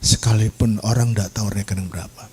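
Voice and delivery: low, measured divine promise; voice of God. Retold or imitated. God promises blessing to the weeping preacher, lightly voiced low assurance. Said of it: "waktu Tuhan berkata".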